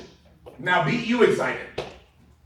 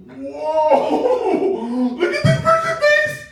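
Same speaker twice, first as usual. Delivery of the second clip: very high, loud amazed whoop; excited demo; 10 semitones higher, 5 dB louder, much slower than usual. Shown as a demonstration. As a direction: show over-the-top excitement, slowly squealed. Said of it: "Get excited with them".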